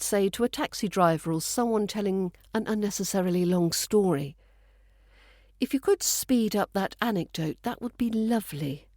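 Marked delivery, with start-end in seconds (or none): 5.6-8.9 understated, polite sarcastic request; mock courtesy, tailing off on the last part; British sarcasm. Shown as a demonstration. To someone telling a long story, understated British sarcasm. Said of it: "Said with peak British sarcasm".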